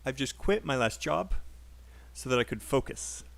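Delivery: unstressed words squished, landing on QUIT, JOB and FOCUS; fast native rhythm. Shown as a demonstration. Teacher showing students native speech, fast connected rhythm. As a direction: run "so that I could" together into "focus". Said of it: "how a native speaker would say this sentence".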